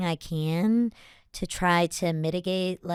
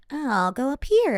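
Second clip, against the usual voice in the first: higher register; 7 semitones higher than usual. Shown as a demonstration. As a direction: shift the line up higher. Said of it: "Oh, a part of my voice".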